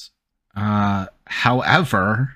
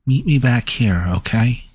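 louder parroted copy of the line; mimicked echo; 4 dB louder than usual. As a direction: repeat it like a parrot. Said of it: "Kenku mimics player".

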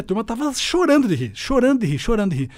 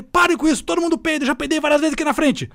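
raised teacher voice; 9 semitones higher than usual. Retold or imitated. Teacher calling the laughing class to order, raised voice. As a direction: shout over a laughing classroom. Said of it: "Eu falei".

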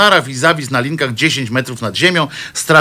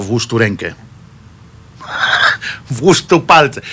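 mock priest; 3 semitones lower than usual. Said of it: "pewnie często powtarzał".

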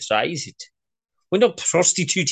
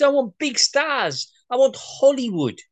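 demanding; 10 semitones higher than usual. Acted. Boss demanding stars on call.

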